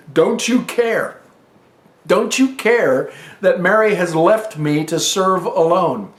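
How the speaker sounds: high, slow, complaining plea; mildly frustrated sister pleading; upset Martha. Retold or imitated. Martha complaining to Jesus about her sister, frustrated plea. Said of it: "she's upset about the situation".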